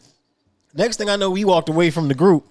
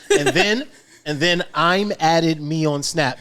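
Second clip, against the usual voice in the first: slow, literal read of garbled text; reading a typo aloud; slower than usual. Shown as a demonstration. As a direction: read it word for word as written. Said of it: "okay, I'm gonna read it how it says".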